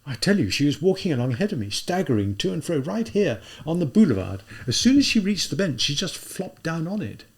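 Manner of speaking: Raskolnikov urging. Acted. Raskolnikov voiced in story.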